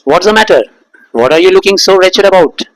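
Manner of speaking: lightly voiced stern father, slow; a hint of a father scolding. Teacher voicing the father scolding Kezia, slow. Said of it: "पापा बोलते थे".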